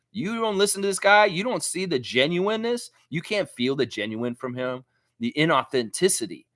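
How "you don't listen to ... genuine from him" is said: high-pitched, disbelieving challenge; incredulous rebuke. Retold or imitated. Streamer answering a commenter who trashed his GM, incredulous.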